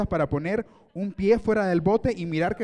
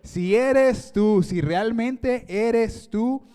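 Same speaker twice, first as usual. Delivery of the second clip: Peter's cautious challenge; 3 semitones higher, much slower than usual. Acted. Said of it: "Y dice Pedro".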